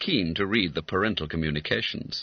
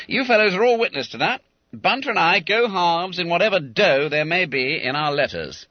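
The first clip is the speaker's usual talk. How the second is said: higher, louder, brisk schoolboy declaration; declaring to witnesses; 9 semitones higher, 6 dB louder than usual. Acted. Bounder addressing his schoolfellows about the deal, declaring. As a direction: announce the deal so everyone hears.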